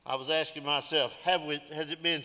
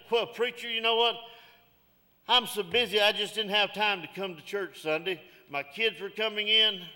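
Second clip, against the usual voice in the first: preaching; 3 semitones higher than usual. Acted. Preacher delivering sermon to congregation.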